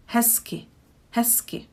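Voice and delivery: hezky with z turned to s, fading to near whisper; hesky. Shown as a demonstration. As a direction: switch z to s in hezky. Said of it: "I switch it to s".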